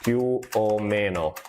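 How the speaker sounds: più o meno slow, in native Italian; più o meno spoken slowly in Italian. Shown as a demonstration. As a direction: say più o meno as pyoo oh MEH-no. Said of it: "Più o meno means more or less".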